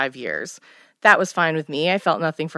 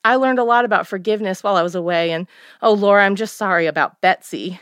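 remorseful mother; 3 semitones higher, 3 dB louder than usual. Acted. Mother voiced in the story.

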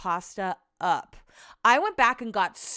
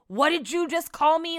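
higher-pitched, confrontational challenge; imitated aggressive outburst; 8 semitones higher, 3 dB louder than usual. Imitating an angry lounge guest confronting a German guy, aggressive. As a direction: act out an offended man squaring up. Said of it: "super loud and aggressive".

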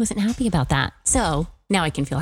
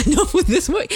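laughing echo; 12 semitones higher, 3 dB louder than usual. Pretend. Echoing with a laugh.

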